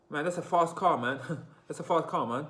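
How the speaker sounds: mock London "fast car" with a broad ah; British accent. Retelling how he used to talk in the UK, British accent. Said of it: "I used to say".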